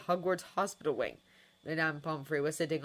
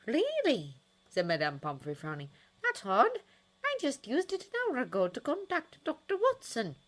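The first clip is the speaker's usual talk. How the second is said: put-on high, loud fussy old nurse; a surprised, fretting matron; 8 semitones higher, 3 dB louder than usual. Nurse hearing the phone is gone, high and surprised.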